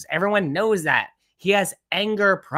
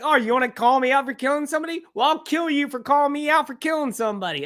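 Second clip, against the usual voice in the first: imitated indignant rant, higher pitched; mock angry threat; 9 semitones higher, faster than usual. Host replaying Baldwin's threat to mock his case, mock indignant. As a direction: mimic an outraged threat in a raised pitch.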